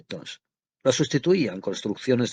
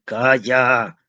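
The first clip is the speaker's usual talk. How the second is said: firm shout; 3 dB louder than usual. A narrator's reading. Father cutting off his pleading son, firm and raised. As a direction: cut the son off sharply. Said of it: "gritó con tanta fuerza".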